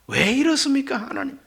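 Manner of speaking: high-pitched pleading protest to God. Acted. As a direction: lift the voice into an appeal. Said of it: "이것이 바로 항변입니다".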